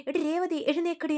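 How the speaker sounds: high-pitched scolding call; mother-in-law waking the sick girl, high and harsh. Retold or imitated. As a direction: bark her awake in a scold.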